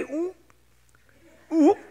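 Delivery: mock morning-sickness gag; sudden little retch, played for laughs; imitated retching. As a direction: act out a queasy heave. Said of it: "입덧이 시작이 된 거예요".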